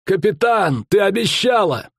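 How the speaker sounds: high pleading shout; dying Willis shouting to his captain; desperate cry. A narrator's reading. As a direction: cry out the promise with the last breath. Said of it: "успел только крикнуть".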